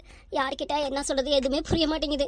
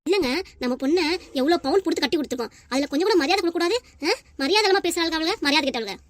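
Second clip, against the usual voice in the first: indignant protest; 4 dB louder than usual. Acted. Acted mother indignant at in-laws' disrespect.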